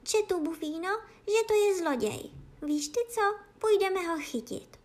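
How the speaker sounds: high-pitched plotting cat voice; high storybook cat; cat conspirator. A narrator's reading. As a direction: propose the chase in a high, eager cat voice. Cat plots to catch a thief.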